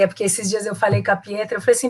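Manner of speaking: usual speaking voice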